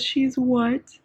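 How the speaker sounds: high, loud, stunned double take; acting out his jolt of shock; shocked disbelief. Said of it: "He goes".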